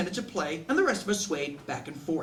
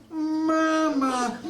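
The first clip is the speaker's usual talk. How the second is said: high, mechanical toy-doll "Mama"; sing-song talking-doll "Mama", high and flat; doll voice box; 6 semitones higher than usual. Retold or imitated. Broken baby doll voice box calls out, high and mechanical. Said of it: "On the Jesus's fourth".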